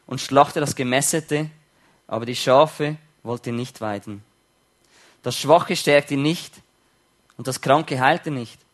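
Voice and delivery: measured, solemn Bible reading; scripture reading. Acted. Preacher reading Ezekiel to the congregation, solemn reading. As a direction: read the prophet's words with weight. Reads Ezekiel aloud in sermon.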